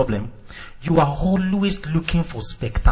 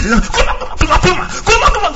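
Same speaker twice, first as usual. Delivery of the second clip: kuluma rattled off fast, climbing higher and louder; fast fervent tongues; 11 semitones higher, 4 dB louder, faster than usual. Shown as a demonstration. Preacher showing tongues when you feel it. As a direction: speed it up as the spirit takes you. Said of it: "The only difference is the speed".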